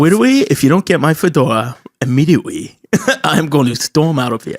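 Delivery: put-on babyish w-for-l and r voice; mock petulant oddball threat; comic put-on accent. Customer threatening to storm out, comic babyish accent. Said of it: "I've been saying that accent all weekend".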